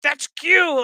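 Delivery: high, loud hammed-up outburst; comic over-excited exclamation; mock alarm. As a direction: imitate someone jumping up in sudden agitation. Acts out Picard near heart attack.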